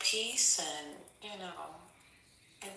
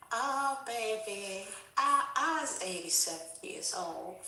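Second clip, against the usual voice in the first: lightly voiced old granny, slow start; old lady voice; 2 semitones higher than usual. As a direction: croak it like a sweet old grandma. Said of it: "Let me get my old lady voice on".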